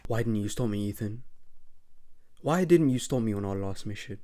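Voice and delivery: hushed accusation before the outburst; quiet villain question. Acted. Villain confronts Ethan quietly.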